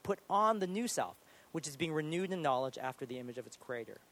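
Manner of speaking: measured Bible reading, lifting the openings of phrases; scripture reading. Real, not acted. Preacher reading aloud about putting off the old self, scripture reading. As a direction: read the verses out to a congregation.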